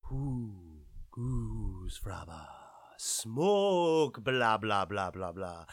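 very deep, very slow, mumbled nonsense; mock gibberish voice. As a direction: drop way down and drag out the blahs like a slowed tape. Mocking gibberish aside.

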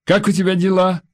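husband's caring question. A narrator's reading. Husband asking on phone.

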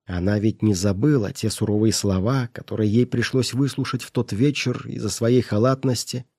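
ordinary delivery, nothing marked

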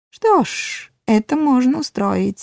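high cunning dwarf voice; sly, pleased little dwarf. A narrator's reading.

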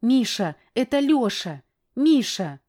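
wife begging her husband to let go; desperate pleading. A narrator's reading. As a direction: pull him off, pleading.

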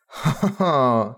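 a slow, hammed-up evil laugh; mock villain cackle, drawn out. Ferris playing a kidnapper, slow mock villain laugh.

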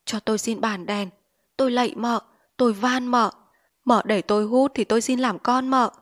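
pleading. Acted. Addict begging his wife for the opium lamp, pleading. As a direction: beg her, whining for the pipe. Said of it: "anh lại năn nỉ".

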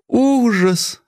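high, swooning cry of mock horror; a delighted shriek, eyes rolled up; blissful gasp. A narrator's reading. Wife swoons at her husband's scheme, high rapturous cry. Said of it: "закатывая глаза".

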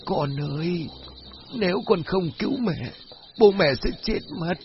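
high, pleading ghostly mother; wailing plea. Acted. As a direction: wail for help like a possessed mother. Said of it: "Giọng nói đó vẫn là của mụ suốt".

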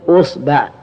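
أصبع said "usba'", u then a; u-a vowels. Shown as a demonstration. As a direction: open on u, then "ba'". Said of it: "ضم الهمزة".

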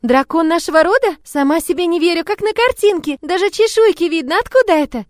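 put-on high, loud, excited child voice; girlish wonder, pitched high; amazed little girl. A narrator's reading. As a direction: marvel at it like a thrilled child. Amazed child admires the dragon.

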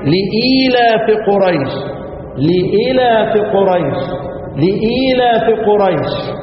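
slow melodic tajwid chant; Quran recitation. Shown as a demonstration. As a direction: recite it slowly, letting each لإيلاف ring. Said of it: "انتبهوا معي".

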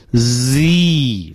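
long continuous buzz on "Z"; stretched, unblocked "Z"; non-plosive Z. Shown as a demonstration. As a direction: let air leak from the start of "Z". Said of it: "气流不被堵住啊".

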